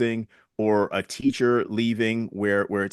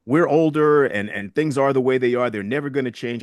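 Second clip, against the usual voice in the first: raised, emphatic retold scolding; chastising; 3 semitones higher, 4 dB louder than usual. Senior citizens chastising her for not understanding, mildly scolding. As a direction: mildly imitate elders setting her straight, pitched up. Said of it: "I was chastised by some of the senior citizens".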